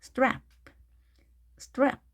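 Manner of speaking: 스트랩 as one fast syllable, strap; quick, consonants linked. Shown as a demonstration. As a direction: link s-t-r in 스트랩 with no vowel between. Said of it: "이렇게 빠르게 발음하시면".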